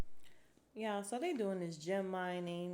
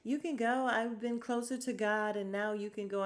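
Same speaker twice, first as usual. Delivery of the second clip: lightly raised, prissy imitation of Marlo dismissing Kenya; mock her bossy send-off, pitched up a bit; 4 semitones higher than usual. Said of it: "Marlo saying".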